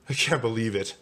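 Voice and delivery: mildly shocked exclamation; understated gasp of disbelief. Acted. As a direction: react with a touch of dismay. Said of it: "Arnie gasped".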